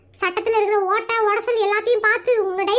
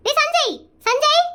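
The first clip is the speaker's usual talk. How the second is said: put-on drawn-out, slightly raised call for a child; 3 semitones higher, slower than usual. Mother summons her son to question him, calling out. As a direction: call the boy over, stretching the name.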